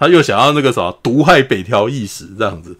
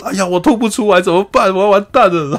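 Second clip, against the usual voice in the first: imitated higher-pitched wail of despair; hammed-up "I'm doomed" lament, pitched up; mock distress; 7 semitones higher than usual. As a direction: whine it like a panicked, miserable sufferer. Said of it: "还有一个人很难过".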